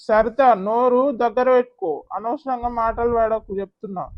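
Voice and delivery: husband warning his wife to mind her tongue; stern warning. Acted. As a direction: shut her down hard.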